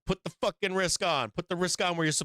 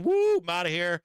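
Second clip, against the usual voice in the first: mock party whoop; 3 semitones higher, 4 dB louder than usual. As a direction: whoop out a carefree exit. Acts out partying trader cashing out.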